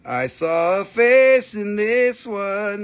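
patient slow restatement; slow, spelled-out repeat. Shown as a demonstration. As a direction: drag out "I saw a face in this one" slowly. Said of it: "slow repeat".

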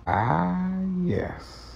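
playful Freeman variation. Shown as a demonstration. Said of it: "Play around with it a little bit".

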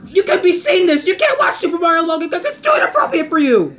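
rushed parental scolding; scolding yell. Acted. Father banning his son from the show, scolding. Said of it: "why are you yelling at me".

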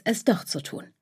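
ordinary delivery

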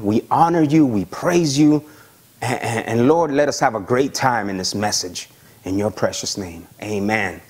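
heartfelt spoken prayer; earnest prayer. Acted. Leads the congregation in prayer.

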